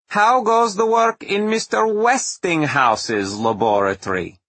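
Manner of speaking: lightly voiced, sly and relaxed; Tesla voice. A narrator's reading.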